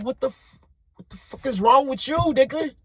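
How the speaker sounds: high, mock furious yell out the window; retold yell. Rolling the window down, yelling at the driver who cut him off, furious. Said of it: "I'm like".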